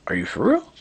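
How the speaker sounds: high-pitched incredulous question; imitating his own stunned reaction; retold disbelief. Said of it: "I'm like".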